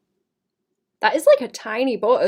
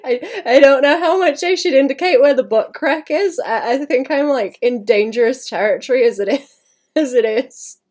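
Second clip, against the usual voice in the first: laughing; 3 semitones higher, 6 dB louder than usual. Real, not acted. Giggly about drawing butt crack.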